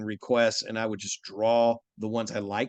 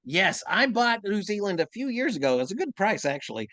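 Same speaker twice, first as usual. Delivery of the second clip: Usopp voice; 5 semitones higher than usual. Pretend. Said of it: "Usopp talking about New Zealand".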